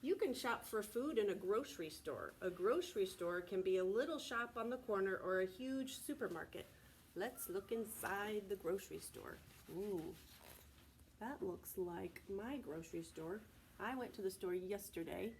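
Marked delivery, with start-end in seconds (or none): 0.0-9.4 loud, animated read-aloud; reading to children. A narrator's reading. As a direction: read it big and bright for little listeners. Reading picture book aloud.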